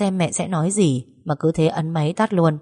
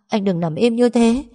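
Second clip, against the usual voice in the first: higher, tearful pleading; crying; 5 semitones higher than usual. Acted. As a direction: she begs her dead boyfriend to wake. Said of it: "Tôi khóc đến nấc lên". (vừa khóc vừa gọi)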